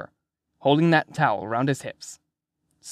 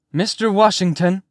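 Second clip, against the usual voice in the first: loud, high summons by name; raised-voice call, rising at the end; 6 semitones higher, 5 dB louder than usual. A narrator's reading. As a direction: call sharply down the hall to stop him. Nurse calls out to man down hall.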